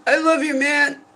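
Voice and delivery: high, loud, blubbering I love you; mock her own tearful drunk self; drunk crying self. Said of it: "And crying".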